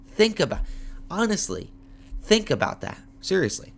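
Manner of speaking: high, insistent and pushy; emphatic high rant. Real, not acted.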